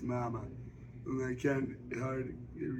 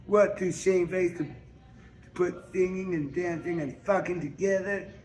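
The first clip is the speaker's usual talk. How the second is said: louder mock challenge; teasing Suge; 5 semitones higher, 4 dB louder than usual. Suge teases Mary Agnes for being shy, mock challenge. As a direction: needle her playfully. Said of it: "Suge say".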